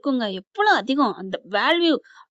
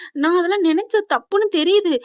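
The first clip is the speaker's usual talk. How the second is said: crying; 6 semitones higher, 4 dB louder than usual. Retold or imitated. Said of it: "அப்படின்னு அழுகுறாங்க".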